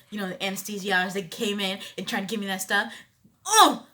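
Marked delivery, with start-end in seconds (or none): 3.5-3.9 pained gasp. Retold or imitated. In pain as the epidural begins.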